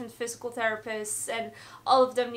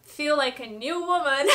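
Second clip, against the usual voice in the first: laughing with relief; 4 semitones higher, 5 dB louder than usual. Real, not acted. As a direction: giggle through the words. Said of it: "I'm just very relieved".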